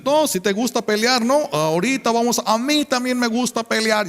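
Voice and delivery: imitating inmates taunting; mock challenge. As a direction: throw the fight back at her. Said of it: "Y dicen".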